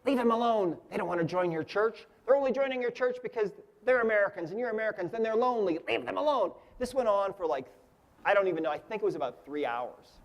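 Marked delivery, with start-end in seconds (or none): 0.1-6.5 mild imitated scream, pitched up; mock screaming. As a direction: imitate screaming entities at restrained volume. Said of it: "they were screaming things like".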